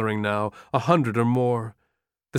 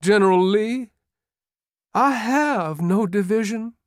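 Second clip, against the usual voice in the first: put-on tearful bewildered boy; 9 semitones higher than usual. A narrator's reading. Shattered general crying to Lee about his lost division, high tearful voice. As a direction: break like a bewildered boy near tears. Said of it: "Pickett said tearfully, voice of a bewildered, angry boy".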